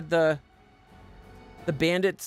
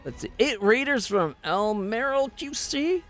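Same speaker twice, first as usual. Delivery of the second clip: bright streamer greeting; 7 semitones higher than usual. Acted. Streamer welcomes raiders.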